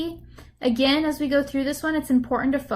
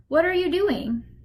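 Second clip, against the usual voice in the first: pitch rises at the end on doing; 4 semitones higher than usual. Modeling a practice phrase for listeners to repeat, with rising intonation at the end. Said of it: "you should have a rising intonation towards the end".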